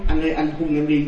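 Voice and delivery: mildly wheedling, coaxing wife voice; coy pleading. Retold or imitated. Possessed wife begs husband for a kiss, mildly coy. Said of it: "Cái bà mới nhõng nhẽo nói".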